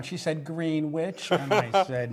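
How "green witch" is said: "Greenwich" said as GREEN-witch; telltale mispronunciation. Retold or imitated. Anchor quoting woman who lied about Connecticut, giveaway GREEN-witch mispronunciation. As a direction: quote an outsider saying "Greenwich" with both halves sounded, green-witch. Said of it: "pronunciation counts".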